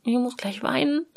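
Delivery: near tears. Retold or imitated. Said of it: "so ein Gefühl von".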